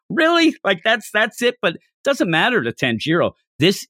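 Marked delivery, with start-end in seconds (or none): 0.1-1.6 incredulous really. Retold or imitated. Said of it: "You're like".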